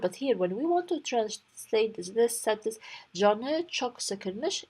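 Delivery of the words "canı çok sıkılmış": slow, careful demo for learners; slow model reading. Shown as a demonstration. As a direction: read the Turkish line slowly and clearly. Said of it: "he was annoyed".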